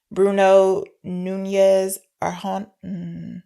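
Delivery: stumbling over names while laughing; fumbling names, laughing; laughing through names. Real, not acted. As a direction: giggle through the name. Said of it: "I apologize for butchering their names".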